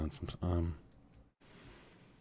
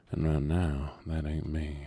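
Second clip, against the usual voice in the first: 1 playful boast; 3 dB louder than usual. Acted. Joking banter about being sober.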